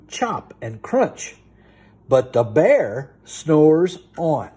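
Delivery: sing-song bedtime story reading; rhythmic picture-book read-aloud; storybook reading. Acted. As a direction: read it lively to a small child.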